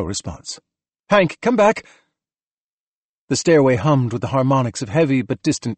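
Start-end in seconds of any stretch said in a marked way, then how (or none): 1.1-1.8 high, insistent hail; raised, pressing voice; urgent radio call. A narrator's reading. Calling again after no response.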